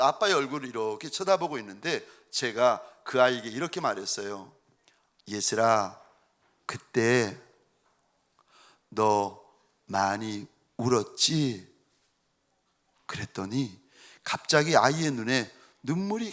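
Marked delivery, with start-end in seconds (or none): 5.3-11.7 tender question. Retold or imitated. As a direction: ask gently, leaving space. Father tenderly asks daughter at bedside. (침대맡의 딸에게 낮고 느리게 다정히 묻는 아빠)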